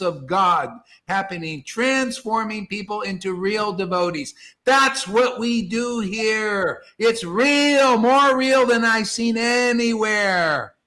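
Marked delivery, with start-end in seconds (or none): 4.7-10.7 louder and higher, slowing down to proclaim; emphatic preaching. Acted. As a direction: declare it with full conviction. Preaching peak.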